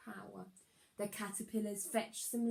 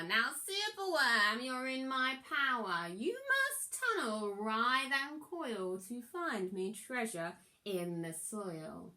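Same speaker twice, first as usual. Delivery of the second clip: lightly voiced villain lording it over the worm; a touch of a villain's gloat; gloating wizard; 2 semitones higher than usual. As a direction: command him like a smug sorcerer. Wizard gives his orders.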